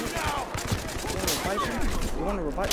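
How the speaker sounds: slow, sing-song mocking taunt; drawn-out taunt. Real, not acted. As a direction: stretch it out to mock him. Taunting a downed enemy.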